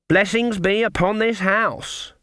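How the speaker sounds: put-on high, slow old witch's greeting; stern old witch. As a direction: announce it grandly like an old witch. Granny's voice, slow and grand.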